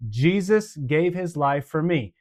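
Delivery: slow, even teaching delivery; slow recital for toddlers. Shown as a demonstration. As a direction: say it slowly for toddlers. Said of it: "This is for the walkers".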